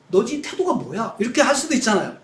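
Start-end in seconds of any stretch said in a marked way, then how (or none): 0.1-1.2 acted wrath. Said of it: "진노하셔야 된다고 생각해요".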